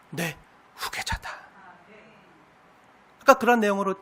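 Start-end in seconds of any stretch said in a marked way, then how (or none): 0.1-1.3 slow hushed whisper. Acted. Preacher voicing God to his child, slow whisper. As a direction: breathe the final word as a secret. God's tender climax.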